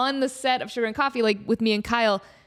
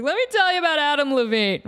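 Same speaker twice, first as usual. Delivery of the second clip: higher and louder, eager to spill tea; mock eager gossip; 5 semitones higher, 4 dB louder than usual. Podcaster teasing fans with celebrity gossip, mock eager. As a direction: lean in like spilling juicy gossip.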